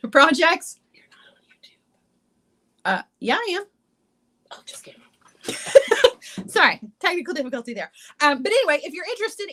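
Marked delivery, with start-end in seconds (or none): 4.5-5.0 whisper. Real, not acted. Aside during technical difficulty.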